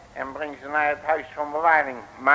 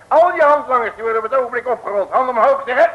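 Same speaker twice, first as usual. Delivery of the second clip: commanding; 7 semitones higher, 7 dB louder, faster than usual. Acted. Arresting the gang.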